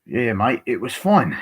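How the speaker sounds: mock British accent; chummy imitation of a British accent. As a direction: put on your best attempt at British. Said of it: "that was your best British accent".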